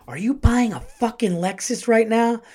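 high-pitched imitation of an angry wife; mock an indignant, accusing wife; outraged wife. Wife confronts him over car.

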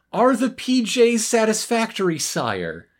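mock butler. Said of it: "then adds".

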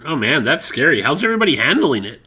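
loud, shouted banter. Acted. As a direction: belt it out like live TV. Segment shouted loudly.

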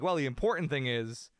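deadpan it like a weary head coach at the podium; a hint of a gruff coach brushing off questions; Belichick impression. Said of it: "we've always heard Belichick go like".

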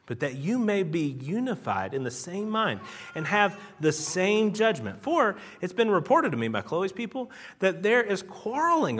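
emphatic Bible reading with wide pitch swings; scripture reading. Acted. Preacher reads Paul's appeal to the congregation, emphatic scripture reading. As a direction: read the verse out, leaning hard on key words.

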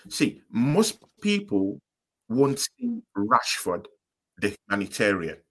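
slow, deliberate repeat. Shown as a demonstration. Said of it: "repeats after call broke up".

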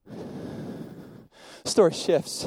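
slow, breathy whispered repeat. Acted. Preacher to the congregation, repeating it in a slow whisper.

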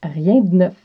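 rien de neuf en québécois; Quebec French accent. Shown as a demonstration. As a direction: dites rien de neuf, de presque muet. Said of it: "le brise-glace du jour qui est". (accent québécois)

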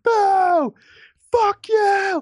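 high mock booing jeer; hammed-up crowd heckle. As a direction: jeer like a rowdy talk-show crowd. Crowd jeering on a talk show.

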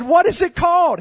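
loud, high-pitched acted curiosity; excited retold question; eager question. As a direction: ask it as if bursting to know. Acted eager question from amazed lady.

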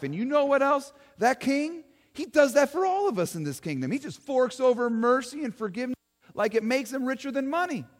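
lightly voiced folksy eyewitness; a hint of a folksy townsman talking to an interviewer; Joe the witness. Eyewitness Joe tells the interviewer Joan about his king, lightly voiced folksy.

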